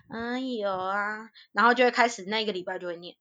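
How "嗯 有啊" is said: slow, softer sheepish "嗯，有啊"; guilty fib. Retold or imitated. Niece fibbing to aunt on the phone, slow and sheepish. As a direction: fake a yes with a guilty conscience. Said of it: "然后就很心虚".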